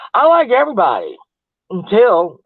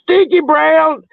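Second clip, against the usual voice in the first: mocking call-out; 7 semitones higher, slower than usual. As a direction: stretch the name out slow and jeering. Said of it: "And he said".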